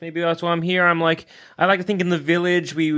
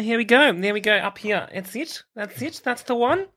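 posh Australian; 5 semitones higher than usual. Pretend. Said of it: "Posh Australian".

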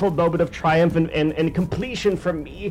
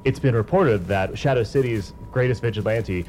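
low, grave newsreader voice; solemn news reporter; 8 semitones lower than usual. Acted. Reporter announcing the vigilante's death on TV, low and solemn. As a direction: announce the death like a sombre anchor.

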